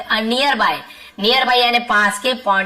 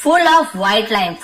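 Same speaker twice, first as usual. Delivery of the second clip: slow dictation; much slower than usual. Shown as a demonstration. Teacher reading the lesson sentence to students, slow and deliberate. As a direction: read it out slowly so the class can follow.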